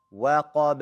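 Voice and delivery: وَقَبَ with a small bounce released on the final b; qalqala on ba. Shown as a demonstration. Teacher models for students, bounced ba in وَقَبَ. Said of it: "do qalqala on the ba".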